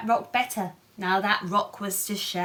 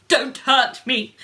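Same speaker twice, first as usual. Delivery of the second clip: whimpered; 7 dB louder than usual. Acted. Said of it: "he whimpered".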